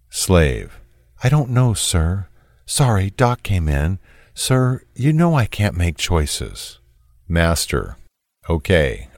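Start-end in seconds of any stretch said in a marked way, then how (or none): 1.2-6.8 reads the slave's text in a higher, meeker voice; a higher voice for the slave's messages; a timid, deferential texter, lightly voiced; lightly voiced submissive texter.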